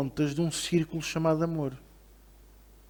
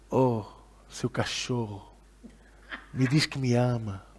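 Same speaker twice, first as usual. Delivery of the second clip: lower, coaxing wife's plea; a hint of a wife asking for affection; lightly voiced wife; 5 semitones lower, 3 dB quieter, slower than usual. Wife asks husband to say he loves her, lightly acted coaxing. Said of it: "Quando a esposa lhe diz".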